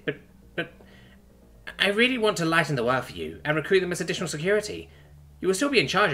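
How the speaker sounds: nervous princess. Acted. Princess proposing two recruits to her lover, nervous.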